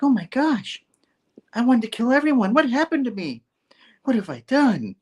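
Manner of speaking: high, airy whispered horror; mock horrified realisation. Sweet aunt realising she wanted to kill, mock horrified. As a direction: play dawning guilt in a high half-whisper.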